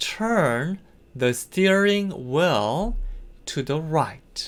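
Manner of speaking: "turn" drawn out, rest read plainly. Teaching an English driving instruction, repeating the sentence: said slowly. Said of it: "다시 한번 천천히 가볼까요?".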